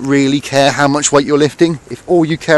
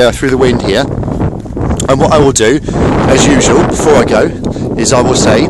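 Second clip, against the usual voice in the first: raised voice against the wind; shouting over wind. Real, not acted. Hope that you can hear me through the wind.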